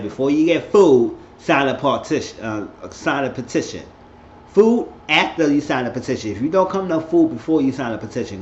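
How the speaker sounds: acting out a no-nonsense hostess; laying down the rule. Acted rule-giving before serving food.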